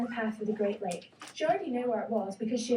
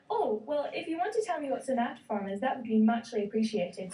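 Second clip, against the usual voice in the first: cheeky. Acted. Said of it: "with a cheeky smile".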